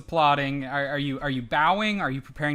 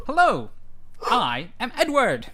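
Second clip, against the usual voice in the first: big friendly giant; 7 semitones higher than usual. Acted. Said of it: "looks down and goes".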